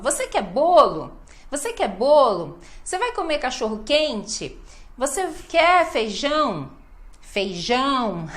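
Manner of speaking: questions rising onto "bolo", "quente", "feijão", then falling; last word stressed. Shown as a demonstration. Teacher demonstrating question melody, strong last word like "bolo". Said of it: "a última palavra que vai ganhar força".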